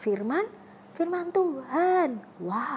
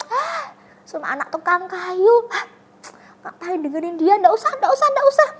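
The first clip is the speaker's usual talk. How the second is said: higher, louder scornful brush-off; dismissive villager; 5 semitones higher, 4 dB louder than usual. Retold or imitated. Villager tells the crowd to ignore Jesus, scornful. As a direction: wave him off with contempt.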